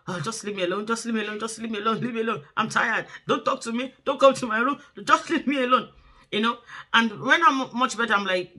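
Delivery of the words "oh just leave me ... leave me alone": cranky mom snapping. Retold or imitated. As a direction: play the worn-out mother who wants to be left alone, rising into a half-real shout. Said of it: "And I'm like".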